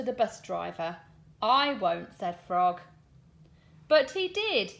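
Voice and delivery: lively, sing-song storybook reading with voiced lines; reading to children. Teacher reading a bus story aloud to her class, animated storytelling. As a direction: read it big for the little ones. Reads picture book to class.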